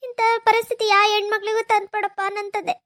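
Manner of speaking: tearful plea to God; crying prayer. Acted. Wife praying no woman suffers this, crying. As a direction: beg God through sobs.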